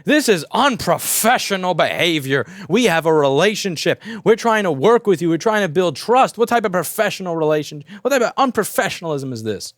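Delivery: hammed-up indignant complaint; a half-hearted imitation of a huffy client; mock outraged customer. Non-paying customer scolding the shop, mock outrage. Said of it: "And the guy explodes on me".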